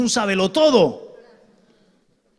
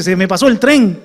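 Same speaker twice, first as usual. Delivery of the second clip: louder, heavy "Se me pasó el tren", with "tren" falling; hammed-up lament over "Se me pasó el tren"; exaggerated mock lament; 8 dB louder than usual. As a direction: belt out the cliché as a mock complaint. Mocking the well-known phrase.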